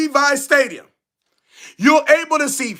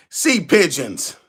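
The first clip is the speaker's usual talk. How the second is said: much lower, slow, gloating nickname; deep mocking taunt; 11 semitones lower, slower than usual. Real, not acted. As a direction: drop the voice low and gloat. Taunting rival fans with nicknames.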